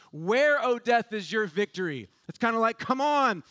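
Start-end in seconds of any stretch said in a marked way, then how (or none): 0.1-2.1 mock challenge from the pulpit; taunting. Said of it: "who taunts". 2.8-3.4 higher-pitched goading challenge; taunting. Retold or imitated. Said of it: "Just taunting this thing".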